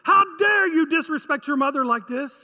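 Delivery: lightly voiced mother, scolding and affronted; a mother's reproach, building in force on the repeated challenge; indignant mother. Preacher voices a mother disrespected by her child, indignant. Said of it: "I can just hear a mother saying".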